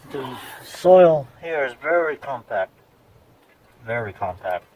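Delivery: winded from digging holes; breathless between phrases; out of breath. Real, not acted. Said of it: "That's why I sound out of breath".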